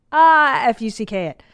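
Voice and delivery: loud high "Ah", then spelled-out curse; toddler cursing. Retold or imitated. Mom spells out what son really said, mock exasperation. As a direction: imitate a kid's big exasperated sigh.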